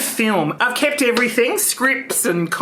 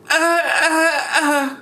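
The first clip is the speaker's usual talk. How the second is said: fake sobbing; 5 semitones higher, much slower than usual. Shown as a demonstration. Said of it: "Emotionally unstable".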